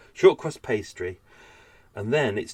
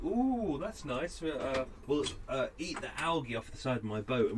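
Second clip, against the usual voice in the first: duck voice; 3 semitones higher, 9 dB quieter than usual. Retold or imitated. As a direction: squeak it out like a greedy duck. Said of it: "The ducks were like".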